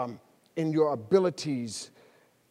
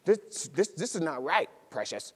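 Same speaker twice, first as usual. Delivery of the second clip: Peter's mock panic; 6 dB quieter than usual. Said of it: "and he realizes".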